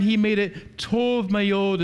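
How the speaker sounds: "tov mayod" said slowly, as careful Hebrew; Hebrew phrase. Shown as a demonstration. Preacher giving the congregation the Hebrew, slow and deliberate. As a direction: sound out "tov mayod" word by word. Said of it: "as the Hebrew says".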